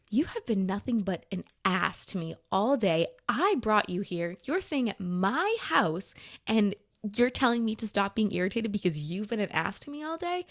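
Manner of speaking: indignant retelling with leaned-on words; retold irritated rant. Friend retelling an argument with Joe, irritated. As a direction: stretch the key words in indignation. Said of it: "made me more mad".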